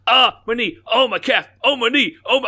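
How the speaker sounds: high, loud pained cries, reliving the cramp; pained yelps. Retold or imitated. Retelling a night cramp to a friend, high pained yelps. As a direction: yelp each body part in pain.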